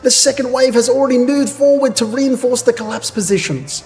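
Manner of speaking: reporting soldier. Acted.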